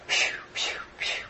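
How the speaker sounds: soft unvoiced puffing breaths; breathless whispered puffs. A narrator's reading. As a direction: puff out air as you swim. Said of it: "went Freddie".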